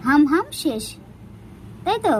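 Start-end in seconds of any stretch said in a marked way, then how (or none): 0.1-0.8 "হাম হাম" as a chewing demo, then done; playful chomping sounds. Shown as a demonstration. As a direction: show the pet how to eat, "হাম হাম". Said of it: "কিরকম?". (খাওয়ার ভঙ্গি দেখিয়ে হাম হাম)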